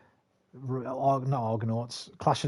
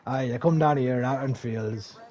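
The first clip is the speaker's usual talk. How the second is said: mock Devon farmer talk; West Country accent; 3 dB louder than usual. Shown as a demonstration. Streamer demonstrating regional accents, hammed-up West Country. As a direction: put on a rustic Cornish burr. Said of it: "Devon and Cornwall, which is more like".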